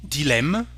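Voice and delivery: dilemme with an open "eh" before the M. Shown as a demonstration. Teacher demonstrating E and M, open e. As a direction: say dilemme as "dee-LEMM". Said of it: "The sound est".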